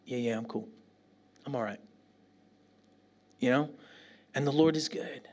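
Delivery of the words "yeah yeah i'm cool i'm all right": retold reassurance. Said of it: "And they're like".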